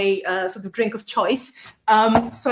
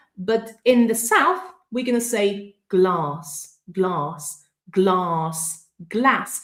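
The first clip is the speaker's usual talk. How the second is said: ordinary talk, nothing marked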